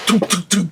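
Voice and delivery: soft little popping noises; imitated BB gun shots. Host imagining being shot under the table, imitated soft gun pops. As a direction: mouth the tiny pops of an air gun. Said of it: "start shooting me with a B B gun".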